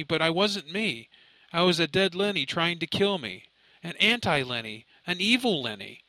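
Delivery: high, wide-eyed dread, slowing at first; fear and shock. Acted. Son telling mother of his dead double, fearful and shocked. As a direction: stare straight through her as you tell it. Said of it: "fear, and shock".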